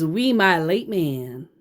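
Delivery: "We, my late man" said slowly, mocking it a little; slow pointed quote. Shown as a demonstration. Telling viewers no Texan talks this way: slow mock quote. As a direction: drag out "We, my late man" as an odd phrase. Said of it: "no Texan that I know of that says".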